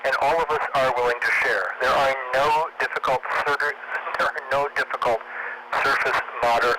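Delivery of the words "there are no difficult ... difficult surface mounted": drowsy, tired speech; sleepy, tripping over the words. Real, not acted. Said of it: "I'm too sleepy".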